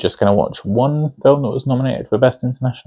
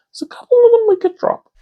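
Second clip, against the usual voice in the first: breathy stage whisper, much higher and quicker; conspiratorial whisper; 3 dB louder, faster than usual. Real, not acted. Reviewer teasing viewers about Best Picture nominees, quick sly whisper. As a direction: lean in and whisper the cheeky secret fast.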